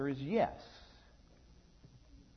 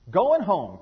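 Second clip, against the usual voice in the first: put-on happy child; 6 semitones higher, 13 dB louder than usual. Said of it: "Freddie said, smiling".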